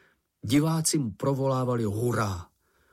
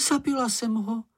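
horrified cry; 11 semitones higher than usual. A narrator's reading. Miss Snork thinks she killed Moomin, mock horror. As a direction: gasp in horror at what you did. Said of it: "vykřikla".

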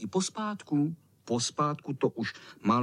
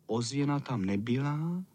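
usual speaking voice

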